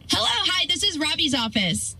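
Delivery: secretary picks up the boss's line sweetly; sweet receptionist. Acted. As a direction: answer the phone like a perky receptionist. Secretary answers the phone.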